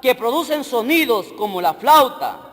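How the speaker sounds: slow, deliberate Bible reading; scripture reading. Real, not acted. Preacher reading verse seven to the church, scripture reading. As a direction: read the verse out phrase by phrase. Reads scripture aloud to congregation.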